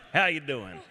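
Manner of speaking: relaxed West Texas greeting; Texan. Shown as a demonstration. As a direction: drop into his dad's Texan accent on request. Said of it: "Talk in Texan".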